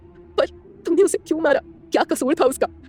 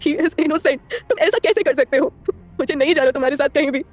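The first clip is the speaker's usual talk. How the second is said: crying anger; 4 semitones higher, slower than usual. A narrator's reading. Heroine cries and rages at him in the car, high tearful fury. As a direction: shout through tears, slowing down. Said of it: "रोते हुए बोलती है".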